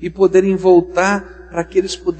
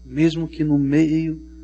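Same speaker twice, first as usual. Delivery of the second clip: grave Moses; 4 semitones lower, 4 dB quieter than usual. Acted. Moses rebukes the people.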